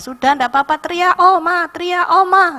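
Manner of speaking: loud, high urging to let it out; encouraging nurse. Retold or imitated. Nurse loudly urges grandma to scream through pain.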